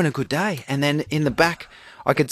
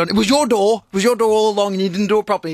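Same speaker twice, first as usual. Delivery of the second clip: retold angry accusation, higher and quicker; mad; 5 semitones higher, faster than usual. Dad retells blaming son for the open door, mad. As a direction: reenact a dad blaming his kid. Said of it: "I'm out on the street and I'm mad".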